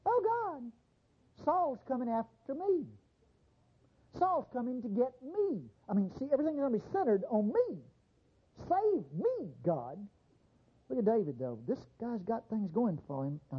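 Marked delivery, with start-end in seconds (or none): 0.0-10.0 a mild whine, pitched up on Oh God; half-hearted whiny plea; whining to God. Retold or imitated. Preacher imitating himself whining to God, a mild whine. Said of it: "if I were whining to God".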